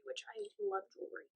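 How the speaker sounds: high, fast, giddy aside. Real, not acted. Friend gushing about loving jewelry, high quick squeal. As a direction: squeal it out happily.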